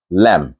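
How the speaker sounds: "lamb" pronounced "lam"; silent b. Shown as a demonstration. Teacher after spelling it out, "lamb" without b. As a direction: finish "lamb" on a plain m. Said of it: "it's just L A M".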